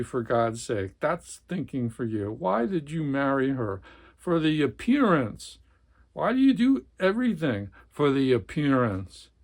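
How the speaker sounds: dramatic read-aloud of a tense family scene; novel reading. A narrator's reading. Book reviewer reading a novel passage, dramatic narration. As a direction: read it like a gripping literary passage.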